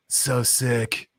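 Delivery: lazy New York bro drawl; crypto bro voice. Retold or imitated. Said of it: "I need to work on my, uh, N Y C crypto bro voice".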